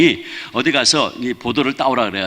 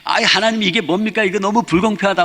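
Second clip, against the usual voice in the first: higher-pitched mock protest to heaven; retold grumbling, pitched up; indignant complaint; 5 semitones higher than usual. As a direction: plead unfairness to God, acted lightly. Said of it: "막 이제 불평을 하는데".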